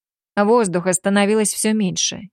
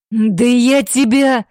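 loud, slow, higher snarled threat; growling bark; 4 semitones higher, 5 dB louder, much slower than usual. A narrator's reading. Alpha threatening the girl, growling bark. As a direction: snarl it, about to strike. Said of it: "с рычанием рявкнул Альфа".

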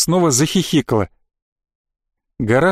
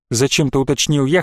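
usual speaking voice

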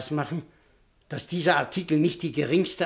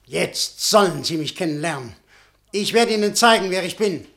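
rising, louder threat; menacing threat; 4 dB louder than usual. Acted. Butschan threatening the professor, growing louder. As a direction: promise him what's coming.

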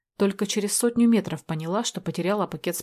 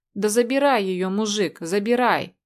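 mumbled surrender; 2 semitones higher, 3 dB louder than usual. Acted. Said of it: "промямлил он".

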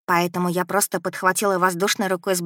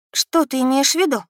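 растерянно; 6 semitones higher than usual. A narrator's reading. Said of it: "Совершенно растерявшись".

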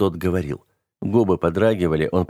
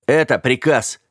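repeated order, louder; 4 semitones higher, 4 dB louder than usual. A narrator's reading. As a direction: insist on the order with force. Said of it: "повторил он". (повторить приказ громче)

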